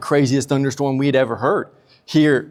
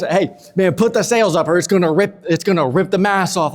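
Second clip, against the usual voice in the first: mock urgent call, higher pitched; raised, hurried sailor's voice, lightly acted; acted urgent yelling; 5 semitones higher than usual. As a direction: call out orders to a crewmate in a storm. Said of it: "Peter's probably yelling at John".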